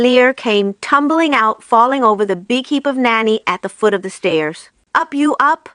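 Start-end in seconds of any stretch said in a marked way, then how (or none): 4.9-5.7 witch's shout. Acted. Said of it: "shouted the witch".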